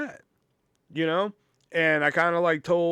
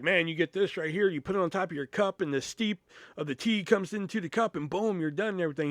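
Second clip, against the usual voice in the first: quick, higher-pitched product rundown; eager sales pitch; 3 semitones higher than usual. Retold or imitated. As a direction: rattle through the demo like a salesperson. Re-enacting his sales pitch to customer.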